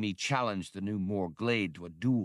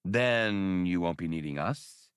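hopeful; slower than usual. Acted. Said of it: "Han said hopefully".

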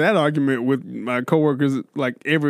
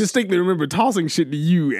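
ordinary delivery

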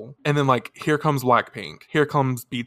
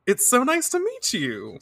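high, sweet polite greeting; playing it cool; 10 semitones higher than usual. Heroine greets the idol beside her, playing it cool. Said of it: "So she plays it cool".

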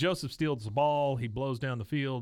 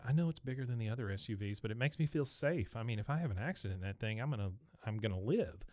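snooty mom; 5 dB quieter, faster than usual. Retold or imitated. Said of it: "the snooty moms back there in the stands going".

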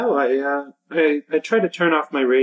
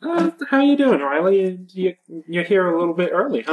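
ranger role; 6 semitones higher than usual. Acted. Ranger greets young coworker.

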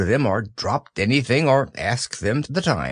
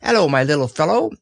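kindly; 5 semitones higher, faster than usual. Acted. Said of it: "in a kindly way".

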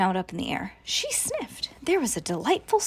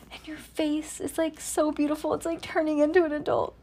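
whispered, higher tender praise to her daughter; tender cooing; 5 semitones higher, 4 dB quieter than usual. Real, not acted. Mother cooing over daughter.

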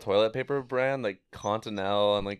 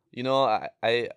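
put-on a lightly done North Dakota accent, a bit louder; North Dakota accent imitation; 3 dB louder than usual. Teen imitating a North Dakota guy in a North Dakota accent. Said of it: "can't even do it".

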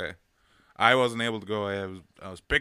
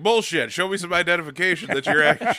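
indignant; 7 semitones higher, 6 dB louder than usual. Retold or imitated. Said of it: "Be like".

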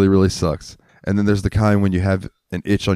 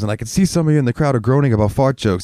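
comedian on stage; 4 semitones higher than usual. Retold or imitated. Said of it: "there used to be a comedian".

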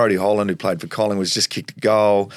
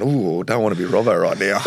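crowd reaction. Retold or imitated. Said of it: "everyone in the whole ground just went".

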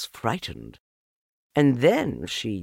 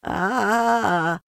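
anxious Piglet; 13 semitones higher, 5 dB louder than usual. A narrator's reading. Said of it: "looking round anxiously".

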